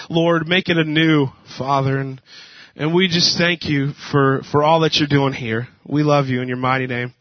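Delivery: steady pastoral prayer voice; earnest prayer. Acted. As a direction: pray over the room sincerely. Leads the congregation in prayer.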